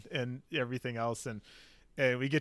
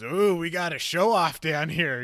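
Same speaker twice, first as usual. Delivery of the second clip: slow, louder mocking call; drawn-out teasing jeer; retold taunt; 3 semitones higher, 5 dB louder than usual. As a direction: needle the show-off, imitating the instructor. Instructor needles the fast shooter.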